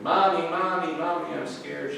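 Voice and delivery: put-on high, loud frightened little boy; boy wakes from thunder and cries for his mother, high and loud; scared child. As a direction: call for mommy in a panic. Scared boy calls mother again.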